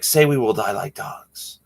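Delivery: lightly voiced menacing demand; a hint of a villain's threat; movie villain line. Retelling Three Amigos scene, lightly voiced villain demand. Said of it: "those are lines from one of my favorite movies".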